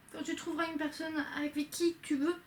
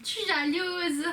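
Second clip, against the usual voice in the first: slow, drawn-out mock-jealous whine; slower than usual. Recounting classmates signing in class, mock jealous. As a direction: drag it out in exaggerated envy. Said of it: "j'étais en mode".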